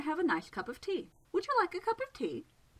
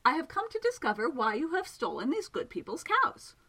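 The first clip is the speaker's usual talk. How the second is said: louder and higher, calling across the pond; 6 semitones higher, 4 dB louder than usual. A narrator's reading. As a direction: project the voice toward the water. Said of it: "he called out towards it".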